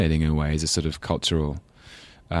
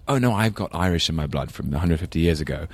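mock proud American. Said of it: "everyone knows".

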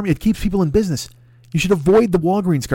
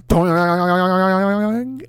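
sudden perked-up exclamation; startled perk-up; snapped alert; 3 semitones higher than usual. Retold or imitated. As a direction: jolt awake at the word beer. Guy snaps to attention.

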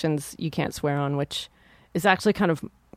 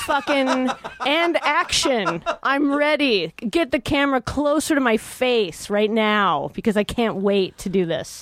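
a hint of a grizzled prospector; lightly voiced old miner, eager; 6 semitones higher, slower than usual. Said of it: "like, an old prospector with a mustache".

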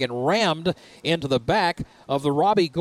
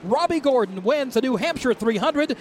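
raised, ringing race call at the flag; excited finish call; 4 semitones higher than usual. Real, not acted. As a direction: call the winner crossing the line.

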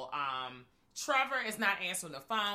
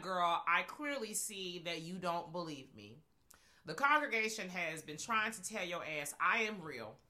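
Candyman voice; 2 semitones lower than usual. Retold or imitated. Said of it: "And was just like".

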